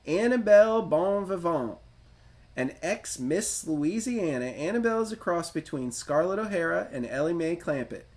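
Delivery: put-on light Tennessee-style Southern accent for the heroine's bio. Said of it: "so I'll try to do my best impressions for you".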